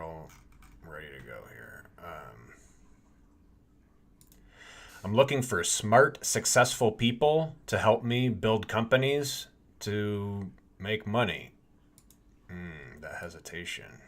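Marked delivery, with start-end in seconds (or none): 5.0-11.5 loud announcer pitch, slow and drawn out. Shown as a demonstration. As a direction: sell it big like an announcer. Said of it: "Should I try and use an announcer voice?".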